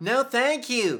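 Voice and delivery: high-pitched cartoon character voice. Trading cartoon impressions with another speaker, doing a best-effort SpongeBob impression. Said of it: "That's my SpongeBob, as best as I can do it".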